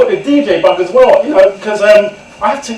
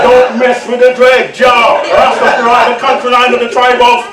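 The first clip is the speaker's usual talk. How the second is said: a hint of a laughing Rasta chant; gloating dread; 5 semitones higher, 3 dB louder than usual. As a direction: crow over the beaten man. Dread gloating over beaten narrator.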